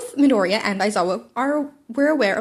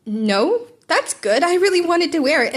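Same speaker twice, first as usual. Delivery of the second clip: rising eager relief, louder and higher; excited; 7 semitones higher, 4 dB louder, slower than usual. Acted. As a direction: brighten up, glad to keep the costume.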